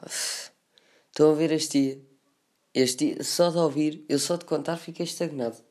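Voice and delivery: light hammy melodrama; dramatic voice. Acted. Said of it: "fiz a minha melhor voz dramática". (a minha melhor voz dramática)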